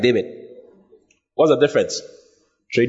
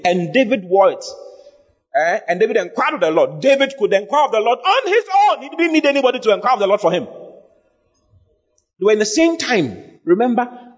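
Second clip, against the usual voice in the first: higher-pitched, insistent sermon voice; emphatic preaching; 7 semitones higher than usual. Real, not acted. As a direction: drive the Bible story home to the congregation. Preaches with raised intensity.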